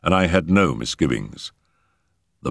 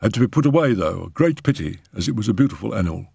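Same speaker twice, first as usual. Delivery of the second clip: lightly voiced servant, a little higher; footman; 4 semitones higher, faster than usual. Footman reporting on the cat to a gentleman, deferential.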